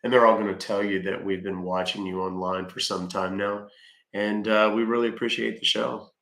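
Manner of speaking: deep pitch shifted. Acted. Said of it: "Can you please stop using voice changer?".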